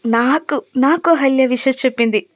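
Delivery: lightly voiced overjoyed little boy; childlike joy. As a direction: crow about it like an excited child. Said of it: "చిన్న పిల్లాడిలా సంతోషపడిపోతూ".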